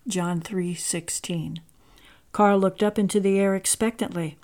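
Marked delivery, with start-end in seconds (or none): 0.1-1.6 slow, soft whisper; hushed slow whisper of the verse. A narrator's reading. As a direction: breathe the reference reverently. Narrator whispers the verse reference.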